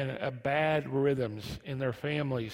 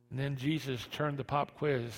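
usual speaking voice

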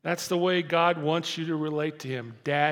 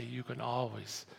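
much softer, gentle father's reassurance; tender father; 4 semitones lower, 9 dB quieter than usual. Pretend. God as a father reassuring his child, softly and tenderly. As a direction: comfort the child quietly, like a loving dad. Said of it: "he'd say".

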